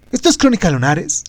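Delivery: whispering. Acted. Podcast intro title line.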